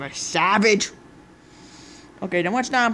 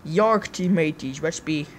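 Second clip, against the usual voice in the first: pirate voice; 4 semitones lower, slower than usual. Acted. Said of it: "since when did you start talking like a pirate".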